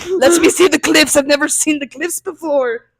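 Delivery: high, loud old Irishman imitation; old Irish granddad. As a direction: holler like an Irish grandpa demanding his view. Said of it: "he's this old Irish".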